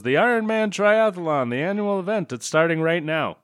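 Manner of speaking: high, bright-edged promo announcer read. Retold or imitated. Movie announcer opening the triathlon, hyped announcer voice. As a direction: hype the event like a TV announcer. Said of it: "and then someone says".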